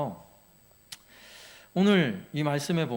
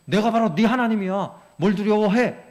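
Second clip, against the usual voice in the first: louder, firmer reassurance as God; voicing God; 4 semitones higher, 5 dB louder than usual. Pastor voicing God reassuring his people, firm and raised. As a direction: speak as God telling his people not to fear. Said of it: "라고 말씀하는 거예요".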